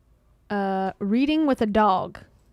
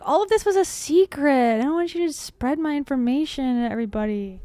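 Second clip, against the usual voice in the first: lightly voiced indignant dog; 3 semitones higher, 5 dB louder than usual. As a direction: playfully protest on the dog's behalf. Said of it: "He's like".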